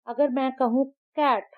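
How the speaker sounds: कैट with a short a; short a vowel. Shown as a demonstration. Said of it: "ये है short vowel sound". (छोटा ऐ sound)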